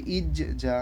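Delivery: "ইজ জা" with "ইজ" bounced before "জা"; qalqalah echo. Shown as a demonstration. Teacher joining the syllables for pupils, "ইজ" echoed, then "জা". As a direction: echo the end of "ইজ", then pronounce "জা". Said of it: "ইজ যেটাকে একটু ইকো করে".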